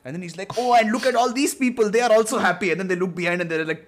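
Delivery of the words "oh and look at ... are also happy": higher, louder, delighted; a hint of a giddy Isaac; cheery Isaac. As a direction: beam over the chaos. Isaac voiced in retold scene.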